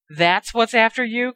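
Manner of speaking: a touch of horrified disbelief; alarmed cry. Acted. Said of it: "cried Uncle Vernon".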